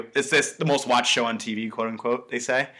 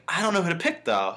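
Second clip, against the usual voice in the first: casual, lilting indecision, imitating a villain; mock-casual villain pondering; 6 semitones higher than usual. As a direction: toss it off casually, starting high and dropping. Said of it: "talking very casually".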